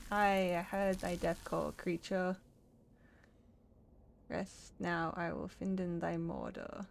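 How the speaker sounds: slow, grave fairy-tale tree; solemn tree character. Acted. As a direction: intone it like an ancient woodland riddle. Voices the woodland characters.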